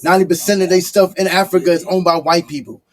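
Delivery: loud rant. Real, not acted. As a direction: push it out loud like you're fed up. Ranting at immigrants on podcast.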